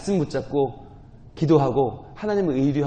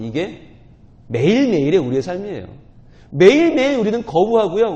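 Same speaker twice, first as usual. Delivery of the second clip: normal talking voice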